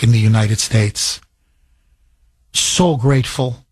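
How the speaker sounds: low-pitched, teary-eyed gratitude; getting emotional. Real, not acted. Man recalling a kind border agent, emotional and grateful. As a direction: keep it low, holding back real emotion. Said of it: "I'm getting emotional".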